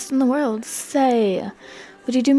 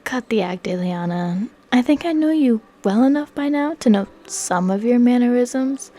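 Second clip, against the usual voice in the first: deep smooth voice; 2 semitones higher, 3 dB louder than usual. Acted. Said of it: "says in a deep but smooth voice".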